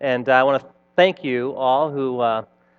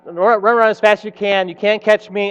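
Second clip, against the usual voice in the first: higher rhythmic chant; lightly played storybook runaway; taunting Stinky Cheese Man; 5 semitones higher than usual. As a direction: lead the crowd into the refrain. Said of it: "let's practice one more time".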